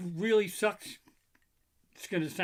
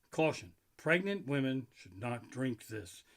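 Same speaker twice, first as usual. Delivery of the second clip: reading the warning label; 3 semitones lower than usual. Retold or imitated. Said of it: "The beer says".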